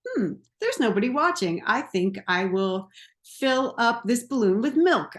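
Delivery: a hint of a kid hatching a silly plan; playful inner child. Inner child thinks nobody is watching, lightly playful scheming. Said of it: "the part of you that's like".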